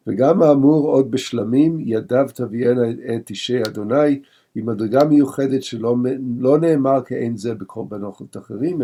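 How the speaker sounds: quick, run-together study-hall reading of the Hebrew; rapid text reading. Acted. Teacher reading the commentary to his class, rapid study recitation. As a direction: rattle off the source text at speed.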